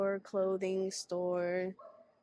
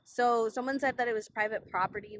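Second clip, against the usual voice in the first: shouting over wind; 5 dB louder than usual. Real, not acted. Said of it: "Hopefully you can hear me through the wind".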